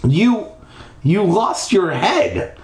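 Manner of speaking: high, halting, stretched exclamation; blurting out. Acted. Startled kid to the headless ghost, high blurt. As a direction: blurt it high after a stunned first word. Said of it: "I blurted out".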